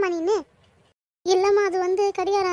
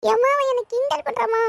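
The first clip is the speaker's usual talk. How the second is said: tearful whine; 3 semitones higher than usual. Acted. Child whines about being teased.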